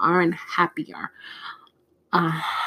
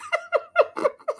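a sudden squeal of laughter up high; high burst of laughter. Real, not acted. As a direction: crack up at the clip, high-pitched. Laughs at funny clip.

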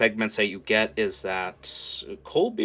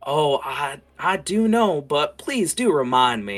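coy villain; 5 semitones higher, 4 dB louder than usual. Acted. Roy asks Dust to say why he came, coyly. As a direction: savour the request, theatrically oily.

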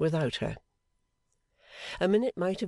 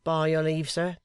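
sharp; 3 semitones higher than usual. A narrator's reading. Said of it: "with a sharp".

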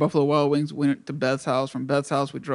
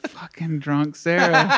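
laughing slowly; slower than usual. Real, not acted.

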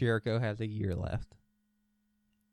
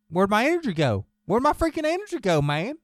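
A J Styles; 8 semitones higher, 10 dB louder than usual. Retold or imitated. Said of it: "yeah, he was like".

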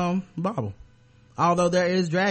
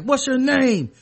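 questioning voice; 9 semitones higher, 6 dB louder, slower than usual. Retold or imitated. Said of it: "when they was like".

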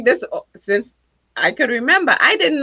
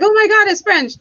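higher, gushing over something fancy; mock excitement; 9 semitones higher, 4 dB louder than usual. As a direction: imitate people gushing. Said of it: "'Cause people are like".

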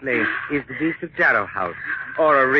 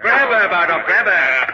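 barked order; 6 semitones higher, 6 dB louder, slower than usual. Acted. Villain orders seizure.

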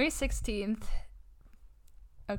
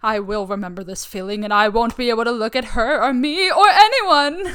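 laughing; 7 dB louder than usual. Pretend. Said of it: "Let me get into character".

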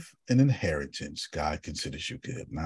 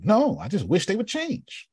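whiny voice; 9 semitones higher than usual. Acted. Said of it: "Okay, change them".

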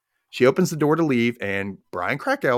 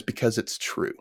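soft, unvoiced calm reply; 6 dB quieter than usual. Angela calmly answering Patty, soft and unvoiced. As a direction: say it quietly, unmoved. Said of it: "Angela calmly says".

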